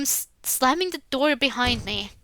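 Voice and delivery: ordinary talk, nothing marked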